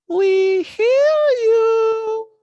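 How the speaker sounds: high, loud, eerie trailer voice; scary movie preview. Acted. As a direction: stretch it out like a horror teaser. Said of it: "a movie in a scary preview".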